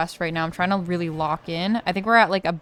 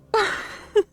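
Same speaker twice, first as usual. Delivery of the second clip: short laugh. Real, not acted. Laughs after a slip.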